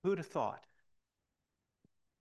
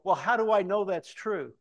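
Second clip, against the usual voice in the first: higher, louder incredulous doubt; doubting question; 6 semitones higher, 8 dB louder than usual. Retold or imitated. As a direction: push back in disbelief. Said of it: "And you go".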